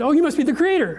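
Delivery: high, eager gushing; awed gods. Retold or imitated. Gods greeting the first one they find, high awed gush. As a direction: gush like dazzled worshippers.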